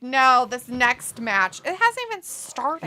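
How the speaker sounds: slow, high drawn-out gripe; slow whiny complaint. Retold or imitated. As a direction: stretch the gripe out slowly. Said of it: "Robbie's like".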